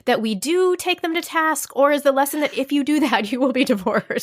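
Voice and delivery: excited. Real, not acted. Host excitedly interrupts.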